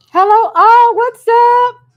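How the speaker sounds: loud, high, bubbly hello to the viewers; excited greeting. Real, not acted. Greeting viewers joining the live.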